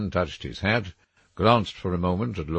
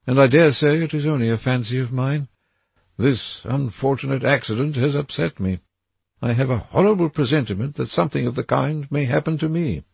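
put-on higher, anxious young gentleman's voice; a nervous young man seeing a threat in the trees; frightened Dorian; 9 semitones higher, 4 dB louder than usual. A narrator's reading. Dorian to Lord Henry, pointing at the trees, higher and anxious.

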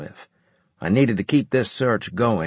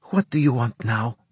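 curt, irritated snap; snapped; 2 semitones higher than usual. A narrator's reading. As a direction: bite the words off sharply. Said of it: "she snapped".

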